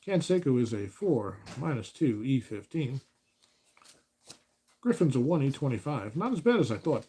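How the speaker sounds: easy broadcast play-by-play read; announcer voice. Acted. Announcing a tabletop baseball game to viewers, broadcast voice. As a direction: call the lineup like a radio man. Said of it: "this is my announcer voice".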